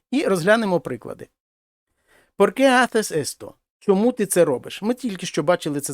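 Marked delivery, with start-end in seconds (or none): 2.4-3.5 "qué" stressed and drawn out. Shown as a demonstration. Teacher shows learners the key question word, stressed "qué". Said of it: "воно повинно бути наголошене".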